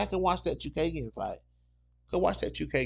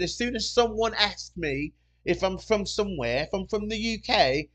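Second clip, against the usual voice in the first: higher-pitched imitation British accent; 5 semitones higher than usual. Customer explaining her switching accent, imitated British accent. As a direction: imitate a woman slipping into British. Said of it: "like somebody flipped the damn switch on".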